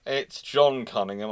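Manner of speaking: ordinary delivery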